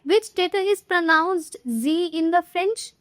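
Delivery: very slow, each word spaced for note-taking; slow dictation. Shown as a demonstration. Teacher reading the next quiz question to students, very slowly. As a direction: read the question slowly and evenly to the class.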